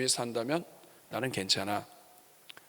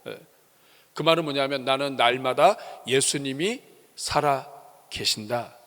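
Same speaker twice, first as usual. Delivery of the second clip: ordinary talk, nothing marked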